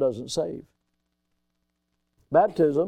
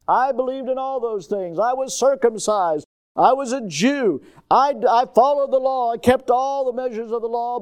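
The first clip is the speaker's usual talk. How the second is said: raised, insistent listing of merits; emphatic boasting; 5 semitones higher than usual. Acted. Preacher voicing Paul parading his Jewish credentials, emphatic boasting. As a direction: build up the boast, pitched high.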